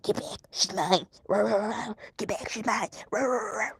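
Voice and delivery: half-playful imitation of a possessed barking dog; mock dog growl. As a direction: growl it out like a dog guarding her. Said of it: "like she was a freaking dog just going".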